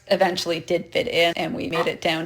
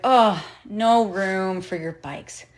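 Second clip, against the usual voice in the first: drawn-out dismissive driver; slower than usual. Retold or imitated. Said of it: "And the guy's like".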